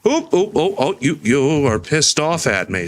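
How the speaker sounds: high startled yelp. Real, not acted. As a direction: caught off guard by a bee. Startled by an angry bee.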